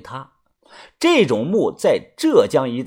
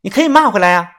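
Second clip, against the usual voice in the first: cold voice; 6 semitones higher, 6 dB louder, much faster than usual. A narrator's reading. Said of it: "冷声地说".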